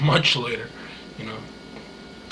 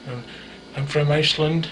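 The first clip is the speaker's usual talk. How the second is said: Icelandic accent imitation. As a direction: mimic a singer's Icelandic accent with hard S's. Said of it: "it's a real hard S".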